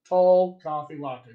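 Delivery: TALL COFFEE LATTE with 'ah' in both coffee and latte; two-vowel General American. Shown as a demonstration. Coach showing two vowels only, General American pronunciation. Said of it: "This was two vowels".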